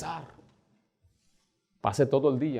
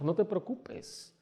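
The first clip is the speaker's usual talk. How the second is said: soothing father; 6 semitones higher, 11 dB quieter, slower than usual. Retold or imitated. Father calming his daughter.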